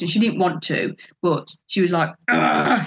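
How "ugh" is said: exasperated throaty "ugh"; imitated growl of annoyance; fuming grunt. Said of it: "she was fuming".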